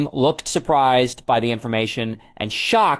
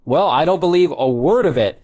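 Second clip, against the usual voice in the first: higher-pitched, swooping scornful retort; spitting contempt; 5 semitones higher, 3 dB louder than usual. A narrator's reading. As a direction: spit it out in disbelief. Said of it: "Snape spat".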